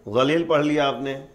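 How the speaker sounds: غلیل begun with a heavy emphatic consonant from the back; zwad pronunciation. Shown as a demonstration. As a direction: darken the first sound of غلیل. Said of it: "غا سے".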